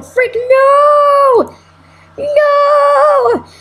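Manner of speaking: high, loud cry of no; dismayed shout. Real, not acted. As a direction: yell as the party fails. Party losing, dismayed cries.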